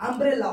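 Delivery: "আমব্রেলা" opening on an "a" sound; initial U as "a". Shown as a demonstration. Teacher showing the vowel sound, "আমব্রেলা" pronounced with initial "a". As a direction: say "আমব্রেলা" with an open "a", not "yoo". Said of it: "অর্থাৎ আ এর মতো হচ্ছে".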